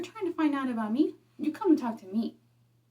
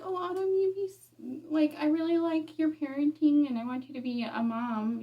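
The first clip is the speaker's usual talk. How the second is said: sweet friend voice; 4 semitones higher than usual. Retold or imitated. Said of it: "you're like".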